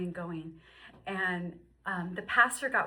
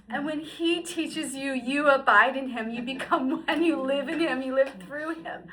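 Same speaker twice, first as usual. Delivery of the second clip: fervent reading; 5 semitones higher, 9 dB louder than usual. Real, not acted. Reading the verse with feeling.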